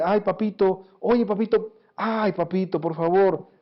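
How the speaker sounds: lightly imitated wheedling child; hijo suplicante. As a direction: coax daddy for a favor, lightly acted. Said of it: "Cuando un hijo le dice". (hijo zalamero pidiendo algo)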